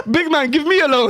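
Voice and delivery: high, whiny pleading voice; begging voice. Retold or imitated. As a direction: beg like a broke mark. Mocking the scam victims.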